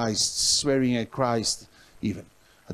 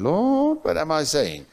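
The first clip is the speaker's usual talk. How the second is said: 1 startled inner prayer; 4 semitones higher than usual. Retold or imitated. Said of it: "in my heart thinking".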